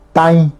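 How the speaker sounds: "Tai" with the A sent through the nose; "Tai" with a nasal vowel. Shown as a demonstration. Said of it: "lleva la virgulilla".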